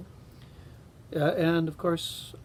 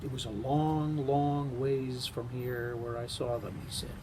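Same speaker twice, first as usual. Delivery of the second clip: story narration. A narrator's reading. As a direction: read it like a bedtime tale. Reads a Carl Sandburg story aloud.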